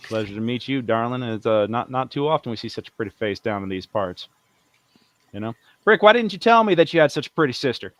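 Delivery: a lightly voiced smooth-talking longshoreman; flirting dockhand. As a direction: lay on the charm with the lady. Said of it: "that's C B flirting with her".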